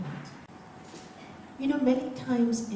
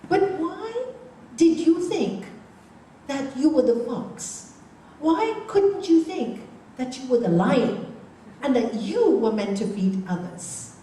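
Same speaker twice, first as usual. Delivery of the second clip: emphatic wise monk; 4 semitones higher, 6 dB louder than usual. Acted. Wise monk challenges the other.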